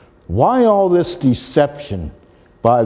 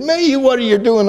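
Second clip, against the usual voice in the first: mild mock scream, raised in pitch; retold scream; 10 semitones higher than usual. Sis questions the driver pulling back out, retold scream. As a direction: imitate her alarmed cry without much volume. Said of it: "she screamed again and said".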